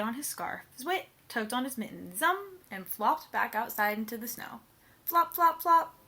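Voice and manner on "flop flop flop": loud, high flop flop flop; flopping sound words. Acted. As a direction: bounce out each flop. Sound words read aloud.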